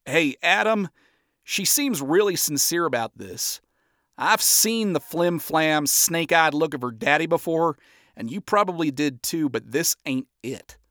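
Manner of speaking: slow, calm Southern-ish reassurance; reassuring drawl. Acted. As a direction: talk him down gently. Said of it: "Johnny assured Adam".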